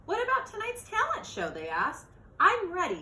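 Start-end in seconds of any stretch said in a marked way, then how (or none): 0.1-1.5 high, bright-eyed question from the fans; eager question. Acted. Fans ask Beatrice about the show, eager and high. 2.4-3.0 confident smile. Acted. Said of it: "said Beatrice with a smile".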